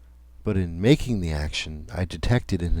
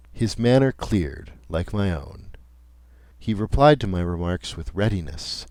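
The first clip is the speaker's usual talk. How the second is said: usual speaking voice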